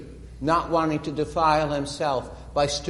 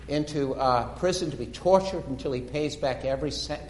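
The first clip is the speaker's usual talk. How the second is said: normal talking voice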